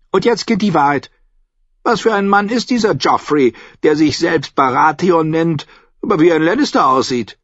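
put-on high, insistent old-woman voice; forceful, imperious questioning, pitched high; interrogating old lady. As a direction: demand an answer like a matriarch. Old lady demands the truth.

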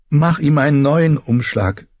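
high-pitched, urgent plea; pleading young queen; begging. A narrator's reading. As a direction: beg the healer for help. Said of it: "bettelte Dani".

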